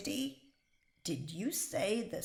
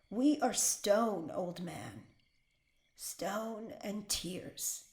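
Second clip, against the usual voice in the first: each word set down slowly like stone; slow solemn defiance for her husband to hear; slower than usual. Acted. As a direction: let it land, slow and heavy. Prisoner's defiant message to husband.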